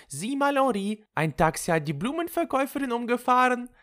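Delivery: very high, excited luring call; feigned alarm. Acted. Lulu lures Henri with false alarm. (gespielt aufgeregt, mit hoher Stimme)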